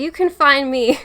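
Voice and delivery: loud, half-hearted cowboy attempt; self-conscious try at a cowboy. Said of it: "cowboy voice".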